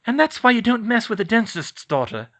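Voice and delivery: high, loud triumphant boast; proud quip. Acted. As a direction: toss off a cocky line. Proud quip after spell.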